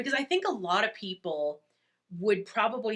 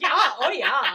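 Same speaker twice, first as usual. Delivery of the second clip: loud put-on Wisconsin accent; 6 semitones higher, 7 dB louder than usual. Repeating your own odd reply after wondering what that accent was, in a put-on Wisconsin accent. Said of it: "I became, I became a Wisconsinite".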